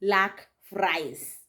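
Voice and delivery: mildly indignant, slow and emphatic; a touch of mock outrage; retold anger. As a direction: act out an annoyed complaint, word by word. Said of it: "Because Shiro was mad".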